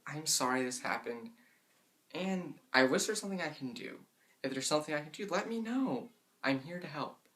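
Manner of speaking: soft, gentle comfort; sympathetic voice. Shown as a demonstration. Friend comforting someone after something went wrong, softly sympathetic. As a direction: console a friend when something goes wrong. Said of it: "that sympathetic voice of".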